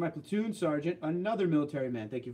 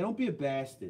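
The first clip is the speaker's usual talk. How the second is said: put-on casual New York street accent. Showing East Coast accents, starting with New York, in a New York accent. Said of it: "New York is more like this".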